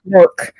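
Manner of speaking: "Merc" for milk, R replacing L. Retold or imitated. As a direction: echo "Merc" with the R sound. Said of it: "Got an R in it".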